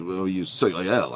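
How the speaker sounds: mock French waiter owning up; French accent. French waiter admits what they use, French accent. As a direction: own up in a put-on French accent. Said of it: "So the waiter goes in this French accent".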